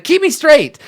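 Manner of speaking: high, loud barked command; shouted order. Acted. Captain shouting to his rowers to turn him, loud. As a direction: yell it to the rowers behind you.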